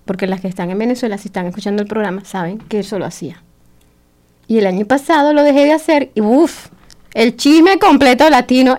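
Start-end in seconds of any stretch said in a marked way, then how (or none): 0.1-3.4 quiet aside. Real, not acted. Aside to friends listening in Venezuela.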